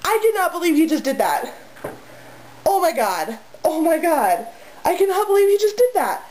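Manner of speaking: high, stunned disbelief; can't believe it happened; real disbelief. Real, not acted. Telling off the cat, stunned and high.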